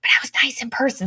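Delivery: hushed whisper, barely voiced; confessing in a soft whisper. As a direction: whisper it like a guilty secret. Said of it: "I don't know why I'm whispering on this".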